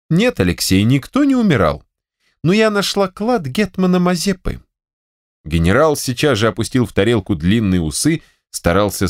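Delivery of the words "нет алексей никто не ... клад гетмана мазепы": higher voice, proud reveal; triumphant wife. Acted. Wife to general, proudly revealing the treasure. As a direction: announce the treasure like a prize.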